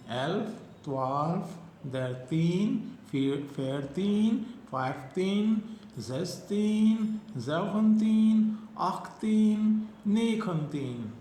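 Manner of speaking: put-on slow, clear teen numbers; slow drilled counting. Shown as a demonstration. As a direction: stretch each Dutch number for students. Drills teens slowly.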